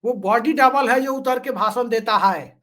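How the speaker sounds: slightly slowed mimicry of a politician; Himanta Biswa Sarma's tone. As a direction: lightly imitate a political speaker, drawing out the words. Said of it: "ऐसे ही बोलते हैं वो".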